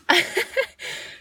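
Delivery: high, voiceless burst of laughter. Real, not acted. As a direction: break into a real laugh mid-story. Laughs at her own rant.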